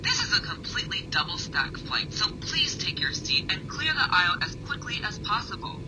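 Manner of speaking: flight attendant announcement. Acted. Flight director addressing passengers.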